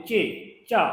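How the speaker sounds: चे then चा, short and clear; sounding it out. Shown as a demonstration. Teacher answering her own question for students by sounding it out. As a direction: sound out चे and चा one after the other. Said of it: "इसको क्या पढ़ते हैं?".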